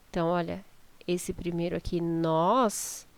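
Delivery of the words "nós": nós drawn out a little with an open o; lengthened stressed NÓS. Shown as a demonstration. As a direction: linger on the vowel of nós. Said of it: "a gente até demora pra falar um pouco".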